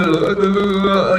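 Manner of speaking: imitated jeering "uh, uh"; mocking noise. Showing how one frustrates an opponent in argument, mocking noise. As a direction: taunt with repeated grunted laughs. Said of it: "they're mocking the Jews and saying".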